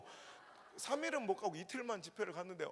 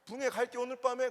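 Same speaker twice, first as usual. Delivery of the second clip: vague Chungcheong reply; 3 semitones higher, 5 dB louder than usual. Retold or imitated. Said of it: "우리 충청도 사람".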